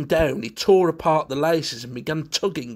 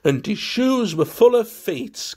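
higher and louder, lightly sing-song; flippant carol; 9 semitones higher, 6 dB louder than usual. A narrator's reading. Valentine teasing the butler, in a flippant sing-song. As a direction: toss it off as a flippant little tune. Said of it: "caroled Valentine flippantly".

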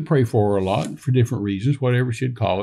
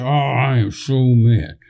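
slow, drawn-out fuming, acted out; stretched-out mock seething; retold exasperation; slower than usual. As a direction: groan it out as if fed up with being angry. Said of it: "why I was so mad".

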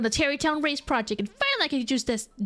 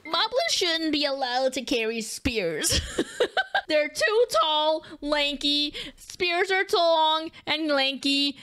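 laughing complaint; much slower than usual. Real, not acted. Laughing complaint about spears.

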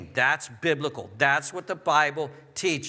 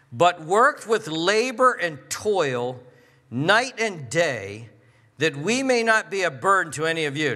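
slow, punched-out Bible reading with weighty pauses; emphatic scripture reading; 3 dB louder than usual. Acted. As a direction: let each phrase land hard, word by word. Rereads the verse emphatically.

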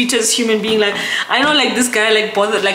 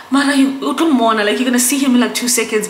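higher, louder imitation of doubters; mock dismissive; 4 semitones higher, 4 dB louder, faster than usual. People telling her she'll see him soon, mock dismissive. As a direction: brush off the fuss, imitating a naysayer.

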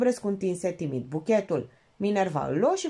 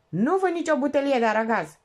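parrot voice; 6 semitones higher, 4 dB louder than usual. Acted. Parrot repeating.

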